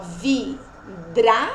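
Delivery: VIDRAÇA slow, broken as vi, dra, ça; syllable by syllable. Shown as a demonstration. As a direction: keep DRA together as one separate syllable in VIDRAÇA. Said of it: "Fica na mesma sílaba". (VIDRAÇA devagar, em sílabas separadas)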